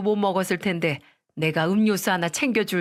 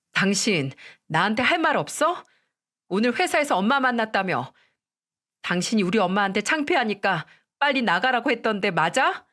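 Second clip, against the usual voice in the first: confronting demand; 2 semitones higher than usual. Acted. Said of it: "저는 남편을 보자마자 따졌습니다".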